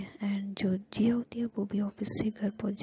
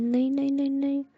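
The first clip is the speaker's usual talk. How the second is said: pleading; 6 semitones higher, 4 dB louder than usual. Acted. Jiya pleads not to end dream.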